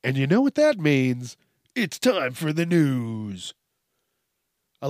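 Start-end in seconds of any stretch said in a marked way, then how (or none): 0.0-3.5 drawn-out show-opener catchphrase; catchphrase announcement. Acted. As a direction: stretch out the day like a host's intro. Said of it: "I do like saying".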